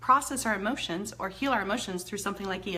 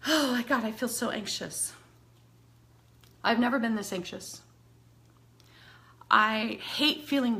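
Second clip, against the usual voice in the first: demo anxious venting. Shown as a demonstration. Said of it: "so I'm showing you the points".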